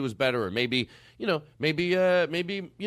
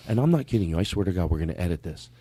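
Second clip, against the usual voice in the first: normal talking voice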